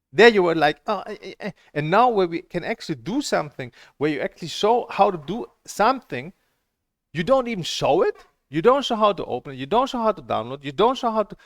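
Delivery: exasperated tirade; indignant rant. Real, not acted. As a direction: hammer each "you don't show" in frustration. Angry rant at instructor.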